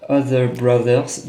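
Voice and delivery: a slow, self-conscious attempt at an English accent for Other Brothers; clumsy English accent. Real, not acted. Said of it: "désolé pour mon accent anglais nul".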